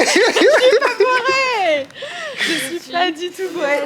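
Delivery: slurring a little, tipsy; tipsy and laughing it off. Real, not acted. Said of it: "Elle est complètement bourrée".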